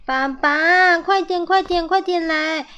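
high, insistent hurry-up call; impatient calling. A narrator's reading. Little squirrels hurrying dad to the sled, impatient. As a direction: call out eagerly, pitch well up.

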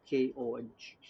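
spelling it out. Shown as a demonstration. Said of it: "共".

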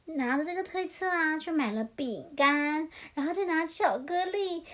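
lilting picture-book narration; children's storytelling. A narrator's reading. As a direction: read it animatedly to little ones.

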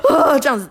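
crying demo. Shown as a demonstration. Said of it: "类似这样的哭啊".

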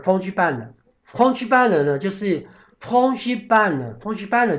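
fromage blanc spoken slowly, repeated in careful French; slow teacher demo of fromage blanc. Shown as a demonstration. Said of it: "这个fromage blanc".

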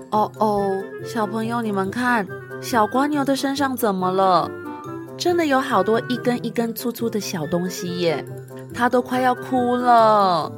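put-on bright storyteller to kids; reading to a toddler. A narrator's reading. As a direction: coax the little ones along. Teacher addresses children.

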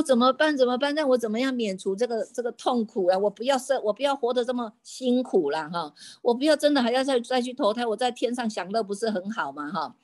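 storyteller voicing an anxious plea; mild retold distress. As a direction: lightly act out someone dreading what is coming. Frightened god dreads rebirth, retold.

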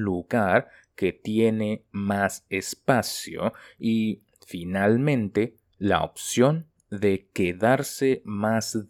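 slow, phrase by phrase, with pauses; measured teacher read-aloud, broken into short chunks; slow dictation reading. Shown as a demonstration. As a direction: read it slowly for learners to repeat. Teacher reads Spanish text slowly.

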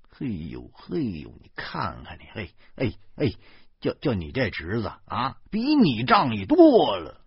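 lightly voiced chubby friend laughing at him; 嘿嘿笑着调侃; chuckling fat man. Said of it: "周胖子嘿嘿了两声".

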